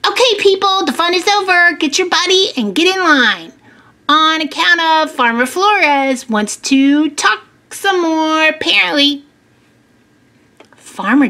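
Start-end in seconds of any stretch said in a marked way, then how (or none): 0.1-9.2 higher-pitched call to line up; lightly voiced group leader; announcing to a class. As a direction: round up a group of kids. Story figure calls the class together.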